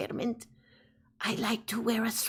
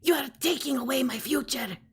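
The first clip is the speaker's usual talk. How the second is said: Greta Thunberg; faster than usual. Acted. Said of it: "sounds like Greta Thunberg".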